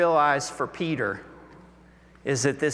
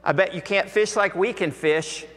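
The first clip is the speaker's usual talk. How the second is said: a lightly voiced, higher, quicker ribbing from old neighbours; teasing townsfolk; 5 semitones higher than usual. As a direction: needle him like nosy hometown fishermen. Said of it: "imagine other people saying".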